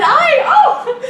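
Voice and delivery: imitating a crying baby. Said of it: "left crying and said".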